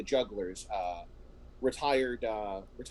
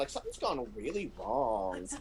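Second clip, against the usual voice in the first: put-on Valley Girl Butler. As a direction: play a robot assistant as an airy Valley Girl. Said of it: "I have to do a Valley Girl accent for Butler".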